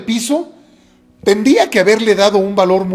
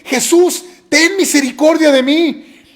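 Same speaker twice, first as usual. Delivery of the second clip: higher, pleading call to the master; crying out for mercy; 6 semitones higher than usual. Acted. Blind man calling to Jesus, high pleading cry. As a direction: beg Jesus across the crowd, voice lifted. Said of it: "Y empieza a gritar a grandes voces".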